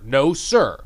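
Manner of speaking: Boston "No, sir" with the R dropped; Boston accent. Shown as a demonstration. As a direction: drawl "No, sir" like a New Englander. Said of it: "the two words no and sir".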